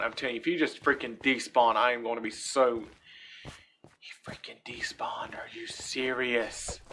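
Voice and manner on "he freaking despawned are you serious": slow, hushed disbelief; disbelieving whisper. Real, not acted. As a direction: whisper it, stunned. Mob vanished, disbelief.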